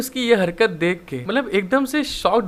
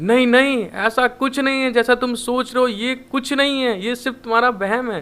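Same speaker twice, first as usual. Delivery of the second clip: higher, flustered denial; panicked yell; 4 semitones higher than usual. Acted. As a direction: protest in a mild mock panic. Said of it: "घबरा जाता है और वो चिल्ला के बोलता है". (घबराई हुई ऊँची आवाज़ में इनकार)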